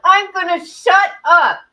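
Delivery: high, loud squeal through laughter; helpless laughter. Real, not acted. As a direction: squeal it out while cracking up. Helpless laughing fit, scolds self.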